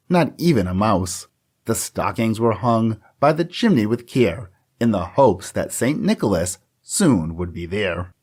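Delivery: measured, rhythmic storybook recital; poem reading. Acted. Podcast host reading the Christmas poem to listeners, rhythmic recital. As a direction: read the verse like a holiday tradition. Reads classic poem aloud.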